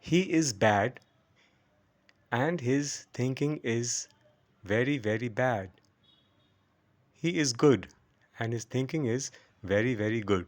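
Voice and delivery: spaced example, long "bad" and short "good"; slow pronunciation demo. Shown as a demonstration. Teacher reading examples for memorizing, slow with stretched bad, short good. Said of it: "আস্তে আস্তে শেখাই".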